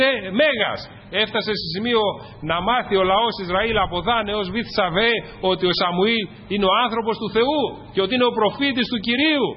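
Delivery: impassioned pulpit storytelling; fervent preaching. Real, not acted. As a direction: preach it insistently to the congregation. Preaches with fervour.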